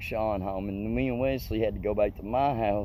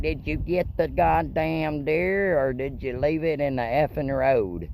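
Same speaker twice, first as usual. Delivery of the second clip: Dad demanding; 5 semitones higher, 4 dB louder than usual. Retold or imitated. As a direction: grill the son like an angry father. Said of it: "Dad was like".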